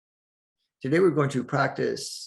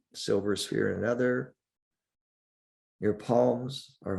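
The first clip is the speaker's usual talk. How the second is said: calm meditation guide with long pauses; unhurried, leave space between the phrases; guided meditation. Acted. Teacher guides listeners through breathing and centering, guided meditation.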